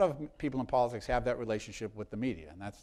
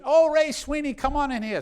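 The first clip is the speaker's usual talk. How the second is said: put-on high, sweet Irish brogue of an old lady; 14 semitones higher, 7 dB louder than usual. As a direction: put on a kindly Irish lilt, pitched well up. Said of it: "a little Irish brogue".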